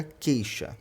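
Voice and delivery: "queixa" as KEI-sha, without any U sound; silent U. Shown as a demonstration. Teacher showing the digraph, "queixa" with silent U. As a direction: go from K straight to the vowel in "queixa". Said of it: "não tem pronúncia".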